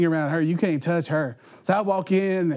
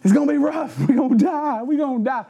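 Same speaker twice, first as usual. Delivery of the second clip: mock panic; 2 semitones higher than usual. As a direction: play a scared friend facing the furnace. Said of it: "a part of them that's going".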